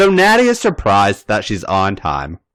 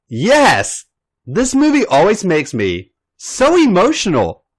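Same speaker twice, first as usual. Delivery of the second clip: a touch of teary emphasis, higher; mildly emotional reply; 9 semitones higher than usual. Acted. Nikki admitting the movie made her cry, mildly emotional. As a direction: lightly play the weepy friend. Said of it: "Nikki explains".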